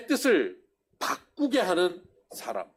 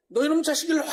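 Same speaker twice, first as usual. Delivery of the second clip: higher, mock-angry mom calling the kid over; mother scolding; 10 semitones higher, faster than usual. Preacher imitating a mother scolding her child, mock anger. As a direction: play the scolding mother, a touch hammed-up. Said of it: "엄마가 막 혼내려고 막".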